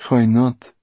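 lightly voiced cold schemer; a loud retort easing into offhand cruelty; callous Mortola. Voices Mortola answering Basta.

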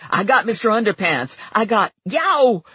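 triumphant, then caught off guard; excited triumph into yelp. Acted. Lula grabbing the intruder, then startled.

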